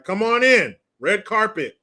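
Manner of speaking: sarcastic open-door holler; mock welcome call. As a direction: call them in like honored guests. Voices an exaggerated welcome.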